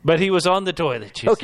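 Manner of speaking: exasperated insistence. Acted. High fast insistence.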